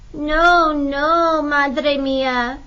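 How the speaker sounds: put-on high, loud child's plea; pleading cry. A narrator's reading. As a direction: cry out to stop mother. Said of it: "Lupe cried".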